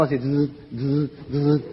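soft, slow short-circuit buzz; quiet imitated electric fizz; mock buzzing. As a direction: buzz like crossed wires fizzing. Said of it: "cruzarse los cables".

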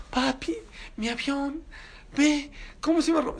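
voz aguda de niño que se queja; niño llorando. Retold or imitated. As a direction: imita a tu hijo con su avión roto. Padre imita a su hijo llorando. (el rabino imita al niño que llora por su avión)

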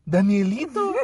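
mock-surprised call, laughing; hammed-up questioning lilt on the nickname; retold recognition. Imitating the girl recognising her big cousin, mock surprise. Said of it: "y le dijo".

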